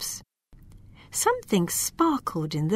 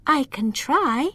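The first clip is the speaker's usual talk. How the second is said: put-on higher, eager elf girl; little elf voice; 6 semitones higher than usual. A narrator's reading. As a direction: offer it bravely. Lila offers.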